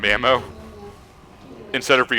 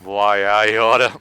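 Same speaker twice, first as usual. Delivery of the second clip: slow, louder Moe-style threat; Three Stooges impression; 6 dB louder, slower than usual. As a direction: ham up a Stooges slapstick threat. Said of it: "a classic Three Stooges poke".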